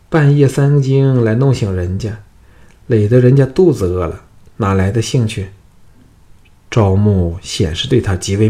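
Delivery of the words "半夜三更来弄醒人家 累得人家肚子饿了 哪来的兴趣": higher, louder coy complaint; pouty protest. Acted. Concubine pouts at the lord who woke her, coy and higher. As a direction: sulk playfully, a little raised. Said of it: "不依地说".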